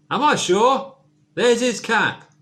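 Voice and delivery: loud, high, outraged father; indignant shout. Acted. Pa shouting at the zoo keeper, loud and outraged. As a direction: bellow it at the keeper, offended.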